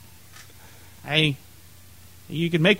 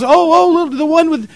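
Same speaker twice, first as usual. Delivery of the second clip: much higher, louder excited ditzy voice; ditzy woman; 10 semitones higher, 6 dB louder than usual. Retold or imitated. Imitating the ditzy woman at the party, higher and excited. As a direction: squeal like an airhead remembering. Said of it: "She goes".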